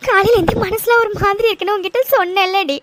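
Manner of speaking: frightened, sobbing confession to a friend; tearful and scared; crying. Acted. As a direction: talk through tears, with sobs between phrases. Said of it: "இன்னும் எவ்வளவு நேரம் தாண்டி அழுதுட்டு இருப்ப".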